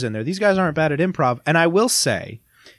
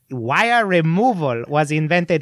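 lightly voiced, slow mock commentator; a hint of a solemn little character voice, drawn out; commentary character voice. Telling friends about the commentary, lightly put-on slow character voice. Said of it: "listen to a guy go".

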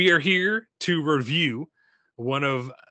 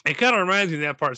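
first try at absent cohost Scott; 3 semitones higher, faster than usual. Acted. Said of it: "Let me do Scott".

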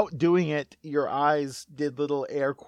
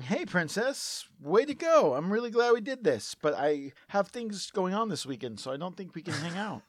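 lightly voiced Wario; 3 semitones higher, 4 dB quieter than usual. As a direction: toss off a brush-off as Wario. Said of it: "Wario saying".

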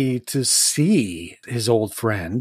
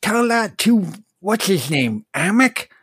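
little bag voice; 4 semitones higher than usual. Acted.

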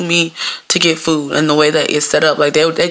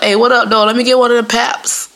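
higher, slangy mock caller; breezy, un-switched phone slang; casual caller; 5 semitones higher than usual. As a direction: ask as if chatting to a friend. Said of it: "And be like".

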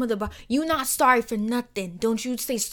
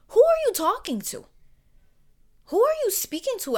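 indignant; 10 semitones higher, 3 dB louder than usual. Acted. Indignant rebuttal.

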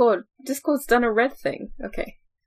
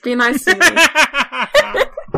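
whiny plea; 5 semitones higher, 4 dB louder, much slower than usual. Pretend. Pleading jokingly.

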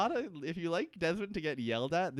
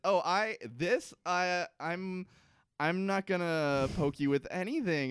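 higher, halting mock denial; conspicuous innocence; 5 semitones higher, slower than usual. Doctor denies he will use the syringe, halting and conspicuous. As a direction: stammer it like someone badly hiding intent. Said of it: "very conspicuously says".

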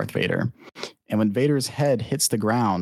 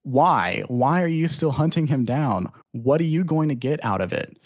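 higher-pitched, mock demanding questions; exasperated questioning; 3 semitones higher than usual. Uncle confronting his nephew about the hunt, exasperated questioning. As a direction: press for an answer, imitating an exasperated uncle. Acting uncle's ultimatum to Zuko.

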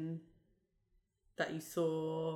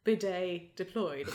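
military voice; slower than usual. Shown as a demonstration. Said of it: "but in a more, uh, military fashion".

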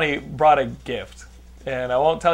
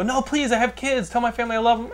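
higher, begging for his life; desperate pleading; 8 semitones higher than usual. Pretend. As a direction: plead like a doomed victim. Mock victim begging before death.

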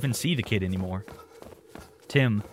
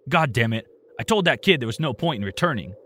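louder frustrated outburst; exclaimed; 4 dB louder than usual. Acted. Uncle Rick cursing on the phone about his son, loud. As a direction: blurt it out, exasperated and loud. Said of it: "Rick exclaimed".

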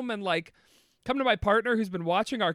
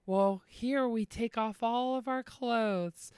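smooth salesman; 5 dB quieter, slower than usual. Acted. Salesman voiced.

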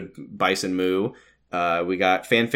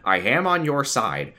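Ben voice; 3 semitones higher than usual. Pretend. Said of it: "Ben voice request".

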